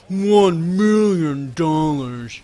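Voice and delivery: very slow, snooty British drawl. Retold or imitated. Mocking a snooty British D-bag, British accent. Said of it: "like a snooty British D-bag".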